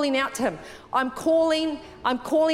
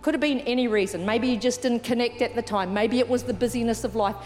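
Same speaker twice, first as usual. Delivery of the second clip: gently lowered, reverent invitation; altar call; 4 semitones lower than usual. Real, not acted. Leads an altar call, eyes closed.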